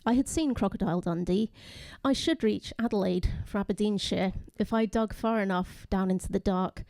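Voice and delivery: measured poem reading, phrase by phrase; poetry reading. Acted. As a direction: read the poem deliberately, pausing between images. Reads own poem aloud.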